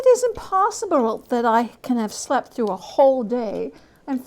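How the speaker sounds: a hint of a startled old man counting the hours; bewildered Scrooge.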